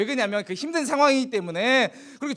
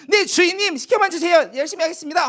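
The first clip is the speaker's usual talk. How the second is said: higher, eager servant's answer to his master; eager young servant; 7 semitones higher, 3 dB louder than usual. Acted. Joseph answering his master Potiphar, eager and higher. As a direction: Joseph keen to please, bright and willing. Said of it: "하면서 그렇게 열심히 했어요".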